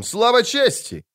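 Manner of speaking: a proud slow call: Слава чести; battle cry. A narrator's reading. First knight's battle cry. (боевой клич «Слава чести», выше и медленно)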